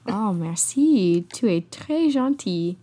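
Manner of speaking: slow, put-on French thanks; mock French reply. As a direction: thank her slowly like a French speaker. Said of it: "Okay, back to English".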